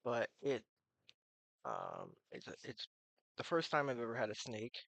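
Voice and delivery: talking without teeth; gummy toothless speech. Real, not acted. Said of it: "if I'm talking funny".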